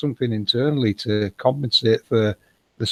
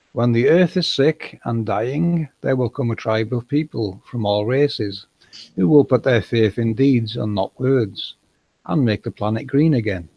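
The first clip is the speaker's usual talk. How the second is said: slow, measured recitation; reading a prophecy aloud. A narrator's reading. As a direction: read it out slowly and deliberately.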